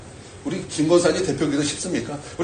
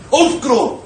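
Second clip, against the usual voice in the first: laughing embarrassment; 7 semitones higher, 4 dB louder than usual. Retold or imitated. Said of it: "자다가 입을 탁 차요".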